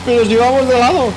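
teasing, laughing. Real, not acted. Mocking partner's flying.

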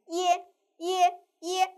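耶 held a little long on a high level tone; slightly lengthened ye. Shown as a demonstration. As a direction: draw out 耶 slightly, keeping it level. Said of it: "要读的稍微的长一些".

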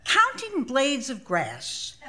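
laughing. Real, not acted. Narrator mocking the grass-counting task, laughing throughout.

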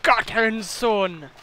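drawn-out mock Scottish accent; attempted Scottish accent. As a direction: try a Scottish accent, slowly. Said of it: "That's good Scottish accent?".

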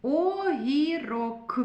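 Огірок stretched out slowly, each syllable drawn apart; drawn-out Огірок for a phonics lesson; slow syllable-by-syllable reading. Shown as a demonstration. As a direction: sound out Огірок slowly for children to hear every sound. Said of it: "О голосний".

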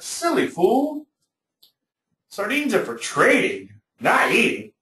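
high, slow scornful put-down; mock the fool in a high, slow voice; scornful trader. Old trader scolds the buyer.

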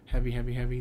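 each heavy said weighty and emphatic; heavy beats. Shown as a demonstration. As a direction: pound out three heavy beats. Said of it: "three heavy beats in a row".

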